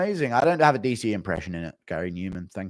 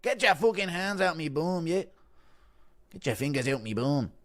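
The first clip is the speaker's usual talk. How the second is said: McGregor impression; 6 semitones higher than usual. Fighter pushing hands away at a party, mock Irish protest. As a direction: yelp it out like a cornered Irish fighter. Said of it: "Impression of McGregor at a rapper's party".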